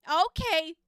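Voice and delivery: high, loud burst of okays; excited okay. Retold or imitated. Psychic startled by a friend's spirit, high loud okays. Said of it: "I was like".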